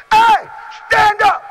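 high shouted summons; calling out. Retold or imitated. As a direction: yell it like Jesus calling him up. Jesus calls the man out.

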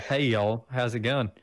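mock country-accent greeting. Shown as a demonstration. Showing friends what y'all needn't sound like, country accent. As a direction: greet them with a put-on country twang. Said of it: "like, a country accent".

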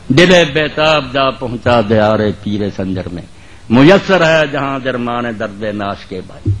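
measured verse declamation, drawn-out syllables; poetry recitation. Acted. Preacher reciting Urdu verse to the congregation, measured declamation. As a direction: recite it line by line, letting vowels stretch.

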